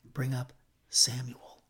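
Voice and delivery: slow, understated fearful request; a touch of trembling dread, drawn out; quaking, terrified voice. Acted. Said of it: "in a quaking, terrified voice".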